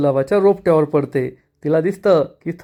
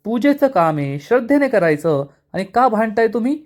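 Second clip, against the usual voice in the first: angry scolding; 2 semitones higher than usual. Acted. Avani scolds the quarrelling brothers, angry and rising. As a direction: tell the two off for fighting during puja. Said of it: "Avni चिडून म्हणते".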